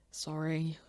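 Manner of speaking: sheepish whispered sorry. Real, not acted. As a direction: breathe the apology. Whispered apology.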